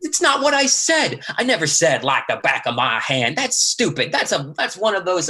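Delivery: angry protest. Acted. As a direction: shut his line down hard. Lee rejects Austin's line.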